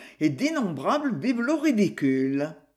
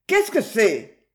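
loud, drawn-out startled question; slow, alarmed question; startled awake; 3 semitones higher, 5 dB louder, slower than usual. A narrator's reading. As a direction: demand an answer, jolted from sleep. Sleeper jolted awake by stranger.

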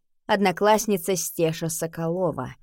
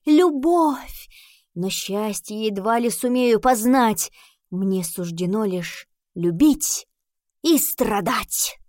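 slow, grand, overwrought recital of a love poem; poem declamation; 3 semitones higher, slower than usual. Acted. Kolya reciting his love poem to Nika, hammed-up solemn declamation. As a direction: declaim each line like a lovesick bard. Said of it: "и продекламировал".

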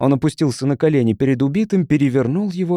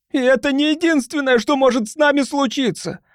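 hoarse, frightened; 12 semitones higher than usual. Acted. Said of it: "хриплым, испуганным голосом".

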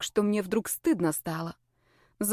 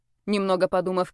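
ordinary delivery, nothing marked

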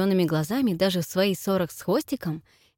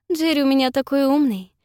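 louder, higher playful coo; mock cooing; 6 semitones higher, 5 dB louder than usual. A narrator's reading. Cynthia praising Jerry to Miss Mercer, mock cooing. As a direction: gush sweetly over the fiancé. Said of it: "проворковала я".

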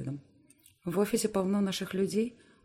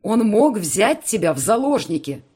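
slow, much higher and louder yell; breaking into a shout; 6 semitones higher, 13 dB louder than usual. Acted. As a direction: explode at her in fear for her. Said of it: "срывается на крик".

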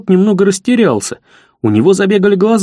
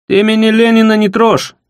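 threatening hiss; 5 semitones higher than usual. Acted. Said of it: "с угрозой прошипел Сиплый".

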